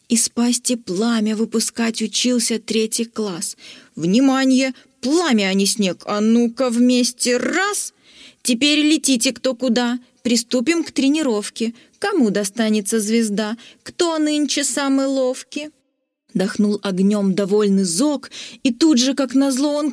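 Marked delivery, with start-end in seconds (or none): 3.9-15.7 teacher commanding. Acted. Teacher instructing class.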